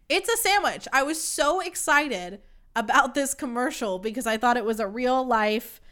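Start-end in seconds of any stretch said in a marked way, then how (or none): 0.1-0.9 much higher, disbelieving repeat; high incredulous. Real, not acted. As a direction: squeak it in disbelief.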